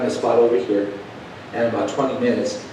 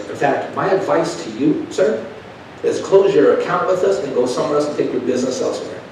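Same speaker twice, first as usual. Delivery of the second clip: high, snooty clerk voice; a hint of a snotty kid; mocking the rude clerk; 4 semitones higher than usual. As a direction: clerk telling him to leave, mocked high.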